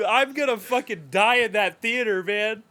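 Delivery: high, loud, emphatic real outburst; excited anguish. Real, not acted. Fan dreading the Superman screening, high excited outburst. Fervent agreement about coming film.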